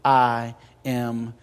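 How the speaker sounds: slow deliberate spelling; spelled out slowly. Shown as a demonstration. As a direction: spell it out one letter at a time. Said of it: "the way you spell love is".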